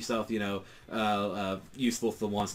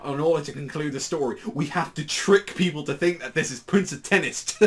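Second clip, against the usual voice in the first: a bit higher, louder fretting; panicked Katsura; 4 semitones higher, 3 dB louder than usual. Retold or imitated. Katsura warning Gintoki about pages, lightly raised panic. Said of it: "Katsu is just like".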